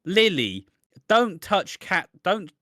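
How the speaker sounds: slow, pointed mock line; imitating Honey. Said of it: "Honey says".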